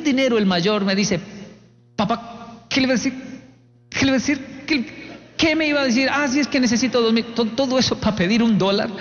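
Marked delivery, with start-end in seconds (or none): 1.9-7.2 higher, halting voice that keeps restarting; timid, hesitant son. Retold or imitated. Eldest son asking dad for money, timid. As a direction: imitate a boy scared to ask.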